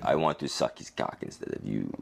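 lightly imitated French accent; a touch of mock French. Quoting the French visitor, lightly put-on French accent. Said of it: "total French accent".

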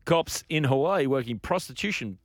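measured newsreader delivery; news read. Real, not acted. Host reads the next story to co-hosts, in news-reader style.

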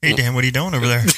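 echoing tunnel voice; phone effect. Real, not acted. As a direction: sounds like a phone line. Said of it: "you just sound like you're in a tunnel".

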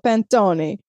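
"panettone" as pan-TOH-nee, Italian-style; playful Italian accent for "panettone"; put-on Italian accent. Shown as a demonstration. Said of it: "say it like that with the accent".

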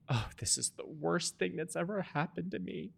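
high, slow, wailing mother imitation; hammed-up anguished mom, slow and high; mock tearful mom. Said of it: "she started crying".

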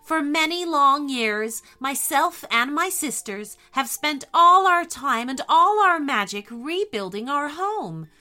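Snow Witch voice. A narrator's reading. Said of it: "she said".

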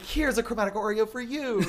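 high, sing-song mock offering with a laugh; sweet handout. Teasing a friend about handing out cookies, high and sing-song. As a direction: hand it over like a treat to a stranger. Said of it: "you're like".

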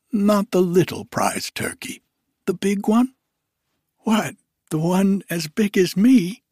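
put-on high, loud wondering street boy; astonished boy. Boy answering Scrooge from the street, amazed. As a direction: sound like an amazed lad. The boy's voice.

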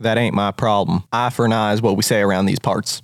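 low-pitched country refusal; hard country villager. Acted. Villager demands eye for an eye, low country voice.

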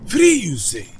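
high, loud astonished Free you say; delighted disbelief; surprised. Acted. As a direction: gasp at the news. Ad skit, surprised repeat.

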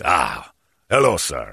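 beautiful speaking voice. Retold or imitated. Attendant greeting the teller at the sink, beautifully spoken. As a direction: imitate a suave, courteous attendant. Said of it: "He's got a beautiful speaking voice".

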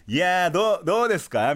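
hammed-up high-energy greeting; high tension. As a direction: pump up the crowd, mock full throttle. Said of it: "ハイテンション".

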